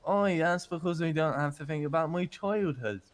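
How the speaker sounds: light Irish lilt, relaxed; Irish accent. Acted. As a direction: slip back into an easy Irish accent. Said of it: "happier when you talk Irish".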